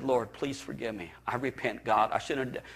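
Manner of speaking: a father begging forgiveness quietly; hushed repentant prayer. Retold or imitated. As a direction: murmur it as if lying in the ashes. Praying in the ashes.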